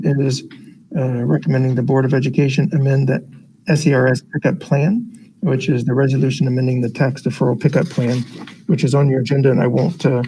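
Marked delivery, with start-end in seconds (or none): 5.4-10.2 muffled by a face mask; talking through a cloth mask. Real, not acted. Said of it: "clarity of talking through a mask".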